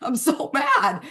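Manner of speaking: put-on high whiny child, then a laugh; mock kid who lost his toys; upset child. Child finding half his room empty, a mock high whine. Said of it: "They'd be like".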